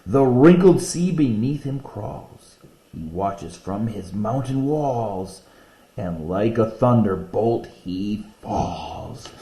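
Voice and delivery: slow, grand poem reading. Acted. Teacher reading a favorite eagle poem, slow and grand. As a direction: let the lines soar slowly.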